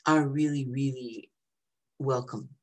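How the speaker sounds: talking through hiccups; words caught by a hiccup. Real, not acted. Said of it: "got the hiccups".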